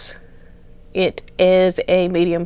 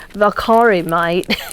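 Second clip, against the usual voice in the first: badly faked Australian accent; imitating an Australian speaker, lightly; attempted Australian accent; slower than usual. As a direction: have a half-hearted go at Australian. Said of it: "did speak Australian English".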